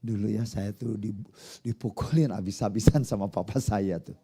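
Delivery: chuckle, then tell the painful story lightly; mock-cheerful account of a beating, opened with a laugh; laughing over tragedy. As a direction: act amused while recounting something painful. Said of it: "mimik mukanya ketawa-ketawa".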